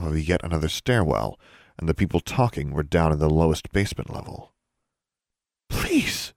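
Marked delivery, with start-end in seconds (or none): 5.7-6.3 breathless high plea; pleading whisper. A narrator's reading. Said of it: "someone pleaded".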